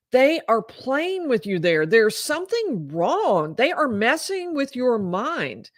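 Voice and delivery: retold insistence. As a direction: lightly act out a wife insisting, drawing it out. Retold distressed wife insisting something's wrong.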